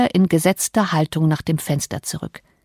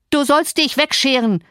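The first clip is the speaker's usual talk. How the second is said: increasingly wild shout; 7 semitones higher than usual. Acted. Cousin drives Cathy away, wild shouting. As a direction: drive them away in rising temper. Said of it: "schrie er immer wilder".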